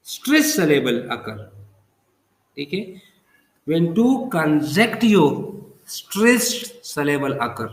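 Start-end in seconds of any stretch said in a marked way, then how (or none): 0.1-1.4 drawn-out, very slow definition; slow dictation. Shown as a demonstration. Teacher defining spondee for students, slow dictation. 3.7-7.7 very slow, drawn-out definition; slow dictation. Shown as a demonstration. Teacher repeating the spondee rule for students, slow dictation.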